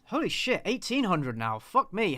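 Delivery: surprised. Real, not acted. Surprised by viewer count.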